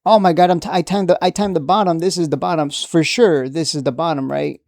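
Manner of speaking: whooping mock celebration over the bottom; hammed-up excitement. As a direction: ham up a trader who thinks he timed the bottom. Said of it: "the cycle repeats".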